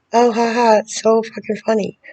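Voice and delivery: high, bitter fake laughter; sarcastic mock laugh. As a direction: scoff at it with a mocking laugh. Mocking his amusement at her pain.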